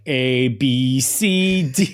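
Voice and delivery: deadpan alphabet recital; Kash Patel. Retold or imitated. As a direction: recite the letters in a put-on voice. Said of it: "he did a Kash Patel".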